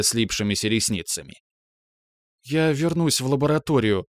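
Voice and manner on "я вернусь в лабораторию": unsure. Acted. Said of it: "неуверенно попросилась она".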